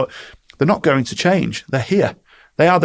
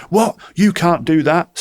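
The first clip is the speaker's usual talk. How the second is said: outraged disbelief; 5 semitones higher, 4 dB louder, slower than usual. Retold or imitated. Client reacting to contract termination.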